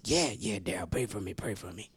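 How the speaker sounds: very low, soft imitated reply; quiet, low-pitched murmured request; subdued neighbor. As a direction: answer low and hushed, as the neighbor. Acts neighbor's answer to prayer offer.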